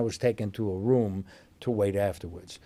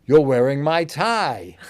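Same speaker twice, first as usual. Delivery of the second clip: Charles impression; 5 semitones higher, 8 dB louder than usual. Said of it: "Prince Charles arrives and goes".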